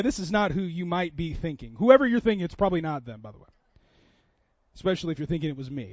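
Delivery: normal talking voice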